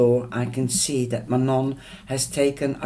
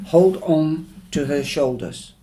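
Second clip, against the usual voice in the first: sharp, louder and higher order; snapping command; 4 semitones higher, 5 dB louder than usual. Acted. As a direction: snap it out as a curt command.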